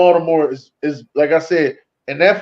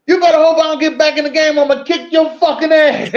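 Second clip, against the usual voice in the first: high mock-menacing yell, much higher; retold sideline threat; 8 semitones higher than usual. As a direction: bark it like a furious player on the sideline.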